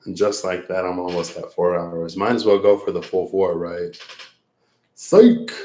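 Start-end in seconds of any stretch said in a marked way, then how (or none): 5.0-5.5 sudden high, loud "Psych!"; playful psych. Real, not acted. Teasing viewers about streaming longer, a high loud yelp. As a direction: yelp it out to trick them.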